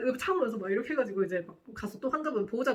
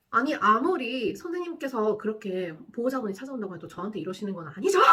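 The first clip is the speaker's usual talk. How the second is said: half-raised, indignant protest; angry retort. Retold or imitated. Nurse confronting her colleague, indignant and raised. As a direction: push back hard, voice rising at the end. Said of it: "이 너무 화가 나니까".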